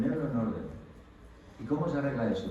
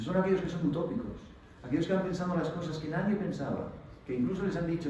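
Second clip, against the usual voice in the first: strong-voiced speaker; 5 semitones higher than usual. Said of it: "hablaba así con voz fuerte".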